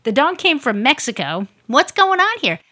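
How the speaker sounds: high, loud, slow incredulous cry; mock outraged squeak of surprise; shocked disbelief. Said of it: "And I'm like".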